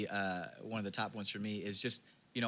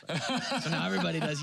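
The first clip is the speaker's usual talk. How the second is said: louder, higher and fast, laughing through the words; real laugh as the secret slips out; 5 semitones higher, 7 dB louder, faster than usual. Real, not acted. Pastor laughing at admitting his secret service, fast.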